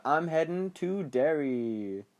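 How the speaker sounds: slow, drawn-out declaration; mock dramatic announcement. Bill leaves his wife for Derry, mock dramatic drawl. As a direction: stretch it out as a grand announcement. Acts out Bill's dramatic departure.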